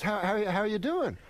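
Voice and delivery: high, stammered retold surprise; shocked stammer. Saget meets Rodney out of hospital, shocked stammer. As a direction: stumble on the first word, acting shocked. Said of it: "he was, like, completely shocked".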